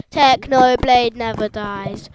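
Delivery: loud, slow chant; catchphrase yell. Real, not acted. Fan repeating the Technoblade motto, loud. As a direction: bellow it with the pitch level.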